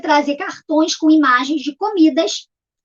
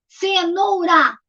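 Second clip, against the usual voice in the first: CENOURA very slowly, CE, NOU, RA; syllable by syllable; much slower than usual. Shown as a demonstration. Teacher counts the giraffe's food, syllable by syllable. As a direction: draw CENOURA out in three beats. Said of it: "três".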